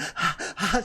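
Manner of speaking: high, sharp acted puffs; imitated labor breathing. Wife in the car trying to breathe, imitated labor breathing. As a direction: mimic breathing through contractions. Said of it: "trying to breathe her contractions".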